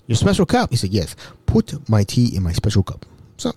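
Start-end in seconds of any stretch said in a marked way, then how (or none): 0.9-3.1 measured, lightly imitated African accent; touch of a formal African voice. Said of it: "Mbutu was an African".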